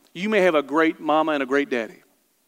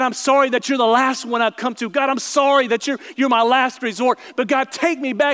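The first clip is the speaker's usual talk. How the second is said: a rising, louder plea of repentance; pleading prayer; 4 semitones higher, 3 dB louder than usual. Acted. A repentant sinner pleading with God, rising and louder. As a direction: beg God for forgiveness, building higher.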